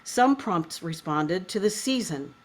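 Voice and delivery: measured, literary reading with pauses between phrases; foreword read aloud. Acted. Host reads a poet's foreword to listeners, measured literary reading.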